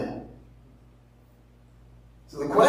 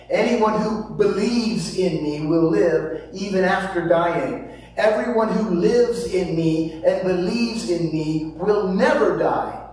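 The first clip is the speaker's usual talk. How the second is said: Scripture read aloud with deliberate emphasis; deliberate inflection. Acted. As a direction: read it with measured inflection, slowing on "will never die". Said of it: "I'll use some inflection in my voice".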